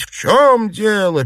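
loud, high, drawn-out alarm; alarmed question. A narrator's reading. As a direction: exclaim it in a fluster. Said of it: "переполошились матушка Дзя".

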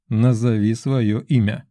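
slow, patient, even repeat. Acted. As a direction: say it slowly and patiently. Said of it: "терпеливо повторил я".

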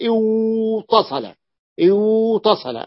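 اوتصل drawn out with a clear w before t; اوتصل spelled out slowly as awtasala; original form. Shown as a demonstration. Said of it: "أبدلت الواو تاء".

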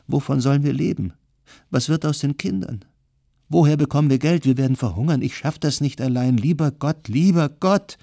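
a wife spiralling into despair, crying out to God; wife hearing her husband is called up, desperate wailing. A narrator's reading. Wife panics over husband's conscription.

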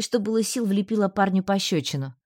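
normal talking voice

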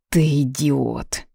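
slow, a touch of a groan; inner groan. Acted. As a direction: mildly groan ты идиот at yourself. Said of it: "мысленно простонал он".

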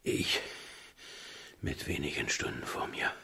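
soft, unvoiced whisper; dying whisper. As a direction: barely breathe the words out. Sterbender König. (geflüstert, kraftlos)

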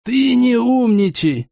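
put-on high, slow irritated old man. A narrator's reading. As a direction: snap at him, getting worked up. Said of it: "завёлся дед".

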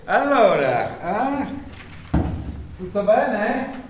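strascicato, lento, falsamente cordiale; lento e mellifluo. Acted. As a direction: allunga le parole con finta cordialità. Selezionatore viscido accoglie i candidati. (selezionatore che accoglie i candidati, lento e mellifluo)

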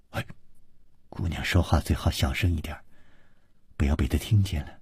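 low, hushed warning. A narrator's reading. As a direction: keep it down, soft and confidential. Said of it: "故意压低了声音说".

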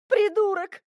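high, furious yell at him; shrill outraged cry; yelled curse. A narrator's reading. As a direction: scream the insult across the forest. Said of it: "завопила я на весь лес".

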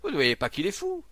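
loud, high shouted warning; exclaiming. Acted. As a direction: cry it out to the crowd. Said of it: "s'écria".

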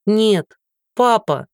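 high, pleading cry. Acted. Daughter cries out to her father, high and desperate. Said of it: "сорвалась на крик".

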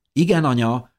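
put-on high-pitched dutiful child's reply; obedient little girl. A narrator's reading. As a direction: answer mum as a little girl. Little girl answers her mother.

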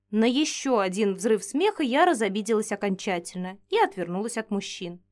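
ordinary delivery

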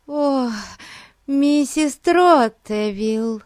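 high, slow, mincing lady's voice; affected voice. A narrator's reading. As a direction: gush it out in a prissy, put-on way. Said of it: "каким-то жеманным голосом".

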